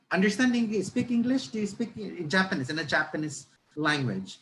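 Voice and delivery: mock halting, high-pitched question from a stranger; friendly Japanese passenger. Japanese passenger tries to strike a conversation, friendly imitation. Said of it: "I think the Japanese wanted to strike a conversation".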